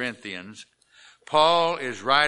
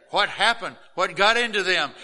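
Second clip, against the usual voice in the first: higher-pitched startled questions; mock astonishment; 6 semitones higher, 4 dB louder than usual. Preacher voices churchgoers puzzled by the shouting, mock astonishment. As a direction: play a baffled onlooker, voice lifted.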